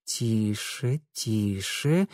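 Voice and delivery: soft self-soothing hush; quiet yourself down; calming hush. Acted.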